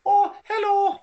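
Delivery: very high, slow, squeaky put-on voice; Nerdy Jesus impression. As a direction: mimic a friend's silly high voice, drawn out. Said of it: "he talks like this".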